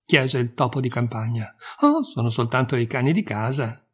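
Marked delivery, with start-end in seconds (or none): none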